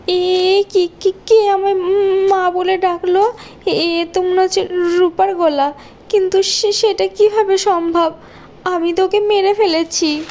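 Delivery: scared, rising panic; frightened. Acted. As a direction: wake him up in fear. Stepmother terrified by ghost.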